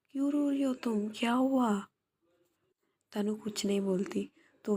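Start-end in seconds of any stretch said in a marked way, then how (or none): 0.1-1.9 higher, gently concerned friend's voice; a caring friend asking why she cries; worried tender asking. Acted. Viya asks crying Tanu.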